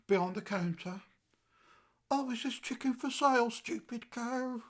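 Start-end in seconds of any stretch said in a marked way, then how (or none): 2.1-4.6 lightly voiced, higher-pitched woman customer; rival shopper. Rival shopper asking the girl behind the counter, mock witch. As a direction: raise the pitch for a mock enquiry. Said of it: "this witch".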